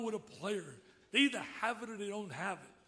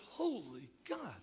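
building from hushed disbelief to loud, higher amazement; retold shock; 4 semitones higher, 4 dB louder than usual. Dick reliving seeing his old driver named president, rising disbelief.

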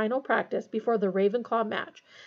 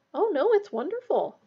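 high-pitched earnest insistence; 8 semitones higher than usual. A narrator's reading. Hermione defending her favorite subject, earnest. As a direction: insist with keen sincerity. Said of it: "said Hermione earnestly".

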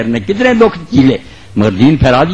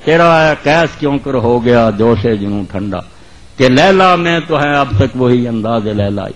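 poetry recitation; 3 semitones lower than usual. Acted. Preacher reciting Urdu verse to the congregation, measured declamation. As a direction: recite it line by line, letting vowels stretch.

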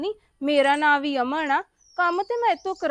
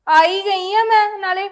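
exasperated retort; 2 semitones higher, 4 dB louder than usual. Acted. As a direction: punch it out, fed up. Daughter-in-law argues back with mother-in-law.

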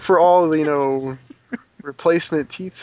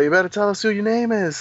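mock British accent; 5 semitones higher than usual.

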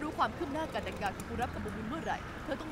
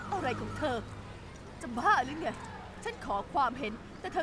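loud, indignant protest at the advice; angry outburst; 4 dB louder than usual. Acted. Ali lashes out at the friend's plan, angry and loud. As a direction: snap back, furious at being told to run.

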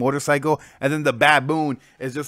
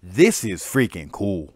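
awed surprise; 3 semitones lower, much slower than usual. Retold or imitated. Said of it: "I was just like".

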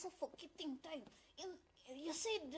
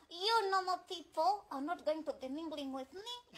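slow, loud mock-haughty boast; mock snobbish; 7 dB louder than usual. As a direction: lord it over the commoners, slowly.

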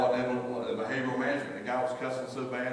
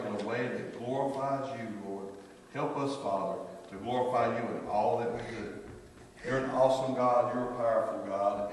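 closing prayer. Acted. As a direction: lift the room to God, unhurried.

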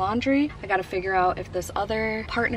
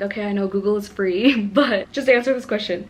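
apologetic; 6 dB louder than usual. Retold or imitated. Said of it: "I always have to, like, disclaim that".

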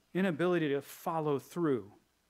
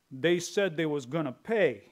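louder tough-guy gangster voice, drawn out at the end; hammed-up mobster telling the boss to send muscle; mafia goon; 4 dB louder than usual. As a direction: play a mob heavy scheming to collect a debt. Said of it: "it's like a mafia kind of thing".

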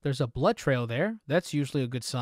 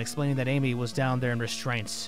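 story narration. Acted. Player reading an account of Amy's case, measured narration. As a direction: narrate the case note evenly. Reads an in-game case note.

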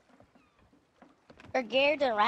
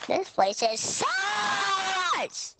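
drawn out, raised pitch alarm; slow dramatic shout; 5 semitones higher, much slower than usual. Pretend. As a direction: stretch it out like spooky alarm. Mock alarm in game.

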